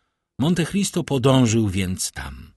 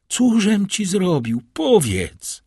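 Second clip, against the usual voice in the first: loud, high desperate demand; frantic cry; 10 semitones higher, 5 dB louder, slower than usual. Acted. Villefort begging the count to tell, frantic cry. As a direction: demand an answer, nearly out of your senses. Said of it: "Zawołał Villefort, bliski utraty zmysłów".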